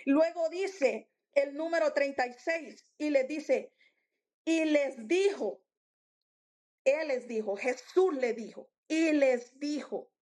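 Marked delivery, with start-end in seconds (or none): 4.4-5.6 slow, weighty quoting of scripture; authoritative. Acted. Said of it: "Es una autoridad". 8.9-10.1 slow, weighty quoting of scripture; authoritative. Acted. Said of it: "Es una autoridad".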